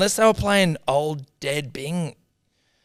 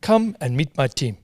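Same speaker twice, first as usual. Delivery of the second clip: imitating the Bing Lee radio ad. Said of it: "This is me reciting the Lee ads".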